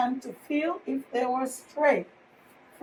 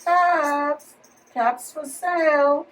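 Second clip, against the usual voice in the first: calling out. Acted. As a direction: call the wares as you walk. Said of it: "he walked back to town calling".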